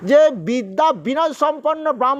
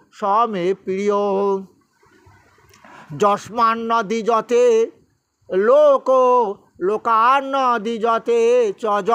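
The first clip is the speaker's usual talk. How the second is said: slow, measured chanting of scripture; Sanskrit verse recitation; slower than usual. Acted. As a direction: intone each verse with pauses. Recites Gita verses in class. (ধীর লয়ে শ্লোক পাঠ)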